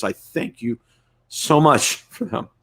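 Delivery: holding back tears while thanking; teary-eyed. Real, not acted. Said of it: "little teary-eyed here".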